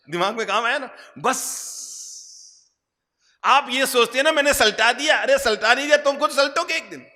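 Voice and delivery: high-pitched, loud, driving sermon delivery; forceful preaching. Real, not acted. Preacher pressing the congregation on where the rubbish went, forceful preaching.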